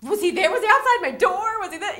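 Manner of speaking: high, loud suspicious questions; mock paranoia. Joking with friends about him being outside, high paranoid questions. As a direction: play up the spooked suspicion.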